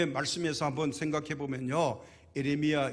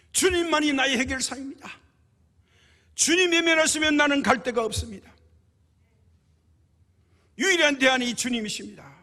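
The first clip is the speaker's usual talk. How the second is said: high, loud pleading to God; crying out in prayer; 9 semitones higher, 7 dB louder than usual. Acted. Woman begs the Lord to hear her, crying out. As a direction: raise the voice into an urgent, insistent plea. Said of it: "부르짖었어요".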